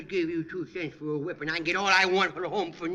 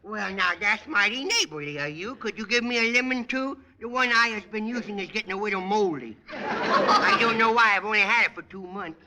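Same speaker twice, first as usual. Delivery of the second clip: put-on bratty kid voice; 3 dB louder than usual. Junior character voice throughout.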